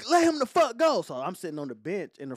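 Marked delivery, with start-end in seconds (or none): 0.1-1.0 professor voice. Retold or imitated. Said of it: "She was like".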